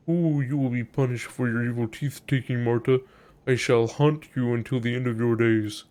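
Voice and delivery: mock-spooky corpse voice; haunt them like a hammy ghost; solemn, wailing curse from the dead; ghostly threat. Pretend corpse threatens to haunt Marta.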